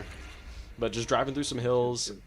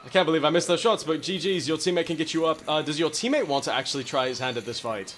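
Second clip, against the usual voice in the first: loud, pompous gentleman; mock gentleman duelist; 4 semitones higher, 5 dB louder than usual. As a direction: boast like a courtly duelist. Post-duel chat, gentleman voice.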